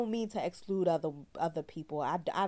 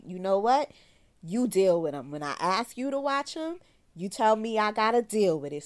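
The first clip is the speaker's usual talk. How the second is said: retold telling-off; 3 semitones higher, 5 dB louder than usual. Telling off the father.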